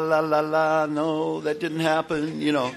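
loud, high, drawn-out denial; singsong denial. Acted. Speaker mimics himself blocking out what happened, singsong denial. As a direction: sing over it to shut it out.

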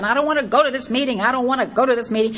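fast, grumbling mock whine; a light mock whine walking downhill; whining. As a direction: grouse it under your breath. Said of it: "grousing and just complaining and whining".

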